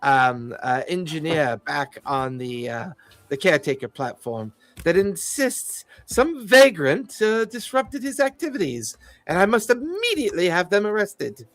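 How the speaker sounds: a lightly voiced condescending fey noble; polite, fussy and faintly hesitant officialdom; haughty fey official. GM as fey security chief greeting the party, lightly haughty. GM voices Sir Thorned Shade.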